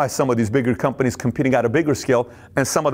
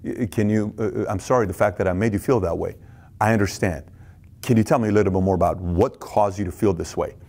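calm apology; 5 semitones lower than usual. Shown as a demonstration. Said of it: "Take ownership".

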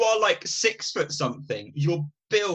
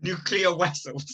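put-on Chekhov accent; 4 semitones higher than usual. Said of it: "It sounds like Chekhov".

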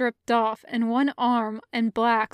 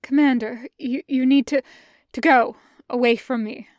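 louder, desperate stammering warning; urgent plea; 5 dB louder than usual. Acted. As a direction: push him away urgently. Hungry Jedi urging Commander away.

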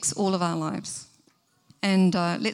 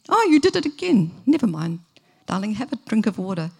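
caving parent; 4 dB louder than usual. Retold or imitated. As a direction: give in sweetly to the child. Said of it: "What are we teaching".

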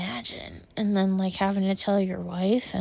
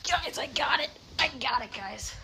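relieved squeal; 6 semitones higher, 4 dB quieter than usual. Real, not acted. Caught the spider.

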